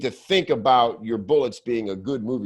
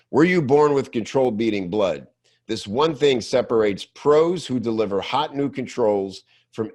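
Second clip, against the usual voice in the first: punchy bullet read-out. Shown as a demonstration. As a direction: sell the headline like a trailer. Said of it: "That's a bullet, friends".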